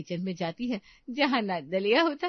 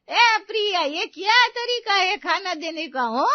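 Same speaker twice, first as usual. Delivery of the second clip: loud, much higher, slow furious rebuke; angry scolding; 9 semitones higher, 8 dB louder than usual. Acted. Mother-in-law angrily scolding Priya for banging the food down. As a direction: yell at her for slamming food.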